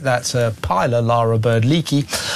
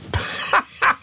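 high breathy laugh; 3 dB quieter than usual. Real, not acted. Host laughs at the name.

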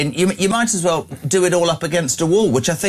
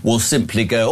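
ordinary talk, nothing marked

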